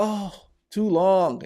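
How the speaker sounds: mock weary, long drawn-out groan of words; acted exasperation at the job; eye-rolling complaint. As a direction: drag it out slowly, fed up. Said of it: "she rolls her eyes".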